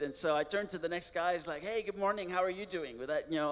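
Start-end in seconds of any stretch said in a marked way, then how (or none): 1.6-3.0 lightly re-enacted cheerful greeting; happy and excited. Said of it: "all happy and excited".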